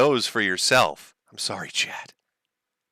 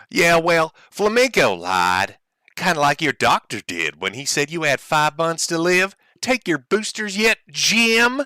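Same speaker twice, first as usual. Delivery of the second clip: Ethan voice; 5 semitones higher than usual. Retold or imitated. Streamer reading Ethan's tweet back in mock voice. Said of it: "From Ethan Ralph".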